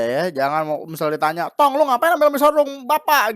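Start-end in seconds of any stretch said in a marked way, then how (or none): 1.5-3.3 high, loud mock scolding from an annoyed dad; scolding father. Father scolds his son for taking his sarung, high and loud. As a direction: play the father catching his kid with his sarung.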